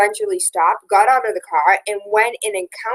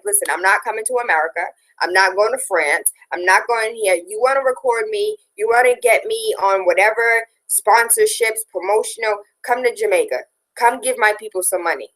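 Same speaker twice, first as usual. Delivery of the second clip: rough imitation of a Jamaican accent; mock Jamaican accent, laying down terms; horrible Jamaican accent. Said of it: "that was a horrible accent".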